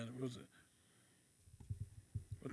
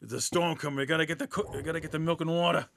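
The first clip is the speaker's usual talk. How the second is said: lightly imitated storm-panic comic; mock urgency, rushing at the end; Victor Battiato; faster than usual. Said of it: "He's the one that does the, the videos. He's like".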